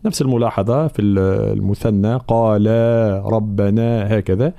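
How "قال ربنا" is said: قال ربنا recited with each long alif fully held; measured recited قال ربنا; natural madd realised. Shown as a demonstration. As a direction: give the final vowel of قال its full length before ربنا. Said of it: "مدود طبيعية لابد أن نحققها".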